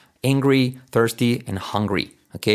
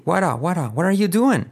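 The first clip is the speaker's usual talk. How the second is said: insistent question; 7 semitones higher than usual. Shown as a demonstration. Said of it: "sino hey".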